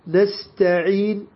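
نستعين held slowly, then the lips are rounded silently; stop with rounded lips. Shown as a demonstration. Quran teacher showing students the ishmam stop. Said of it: "ضم الشفتين".

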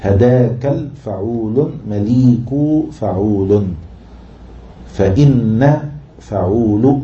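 slow syllables with lifted endings; metrical scansion. Shown as a demonstration. Teacher matching words to metrical feet, slow scansion. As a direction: sound out each foot separately. Scanning verse foot by foot.

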